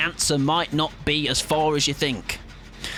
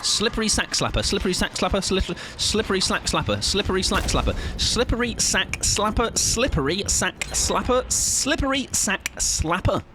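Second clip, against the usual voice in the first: tongue twister; 5 semitones higher than usual. Shown as a demonstration. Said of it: "Say that ten times fast".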